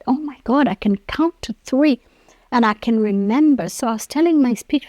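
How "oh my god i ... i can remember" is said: excited. Retold or imitated. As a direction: burst out with joy at the news. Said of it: "and I was so excited".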